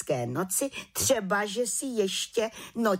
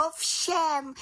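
volala; 9 semitones higher than usual. A narrator's reading. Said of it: "volala malá čarodějnice".

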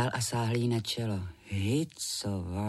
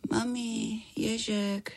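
lightly voiced drowsy little girl, higher; sleep-talking girl; 10 semitones higher, much slower than usual. A narrator's reading. Sick Minka talks in her sleep to her mum, drowsy and high. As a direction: murmur it half-asleep like a feverish child.

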